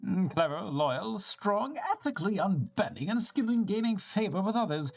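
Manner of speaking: a hint of a proud old leader, measured and fond; lightly voiced elder. Elder to traveler, fondly praising his son, lightly voiced.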